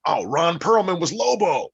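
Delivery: high, loud delighted discovery; surprised at the name in the credits; surprised realization. Retold or imitated. Retold reaction watching credits.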